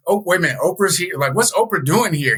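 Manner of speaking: high, startled disbelief; surprised. Retold or imitated. Retelling his shock at seeing Oprah, high and startled. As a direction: gasp it out like you just spotted Oprah.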